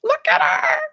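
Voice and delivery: very high, strained cry; frantic squeal. Acted. Urging a doubter to look at her friend, frantic. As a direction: shriek it in alarm.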